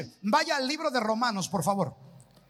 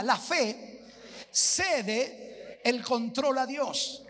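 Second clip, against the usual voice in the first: slow recitation; much slower than usual. Shown as a demonstration. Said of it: "Levante las manos, diga".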